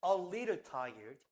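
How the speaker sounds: very slow, each word drawn out. Shown as a demonstration. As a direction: read it slowly for the class. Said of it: "어떻게 보이냐면". (한 단어씩 아주 천천히)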